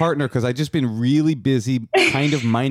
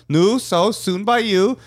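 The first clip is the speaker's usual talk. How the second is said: Hasidic wedding guest; 11 semitones higher, slower than usual. Retold or imitated. Hasidic guest pestering the cousin at a wedding, high and nudging. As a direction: lean in and needle him. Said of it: "a Hasidic Jew saying it".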